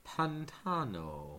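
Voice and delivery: pantano spoken slowly and deliberately; Spanish word. Shown as a demonstration. Podcaster teaching co-hosts the Spanish word, slow and careful. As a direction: spell out pantano syllable by syllable. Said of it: "Swamp in Spanish is".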